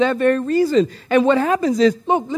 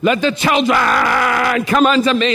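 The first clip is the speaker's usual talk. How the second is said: mock indignant quote. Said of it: "they always throw the finger with it".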